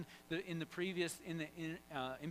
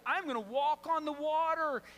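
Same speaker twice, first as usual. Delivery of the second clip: high, loud, fired-up declaration; acted gung-ho boast; bold faith; 11 semitones higher, 7 dB louder than usual. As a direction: announce it with total confidence. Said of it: "that kind of level of faith".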